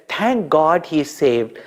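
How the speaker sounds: slow grateful sigh of relief; mother's heartfelt thanks; relieved and slow. Acted. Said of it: "she also said".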